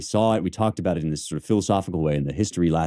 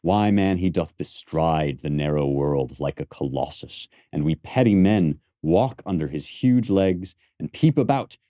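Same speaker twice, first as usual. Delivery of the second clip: reciting Cassius. Shown as a demonstration. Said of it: "And then Brutus".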